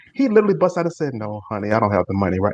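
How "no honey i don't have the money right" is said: soft, easy, soft-spoken voice. Retelling how a man answered about a car payment, imitating him talking soft. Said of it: "He was talking soft back to me".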